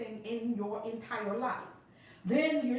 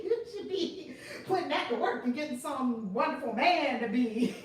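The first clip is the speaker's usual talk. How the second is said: higher comic imitation through laughter; Kevin Hart; 3 semitones higher than usual. Finishing a comedian's joking advice to a friend, laughing imitation. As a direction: laugh through the retold joke. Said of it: "Kevin Hart said something funny to her".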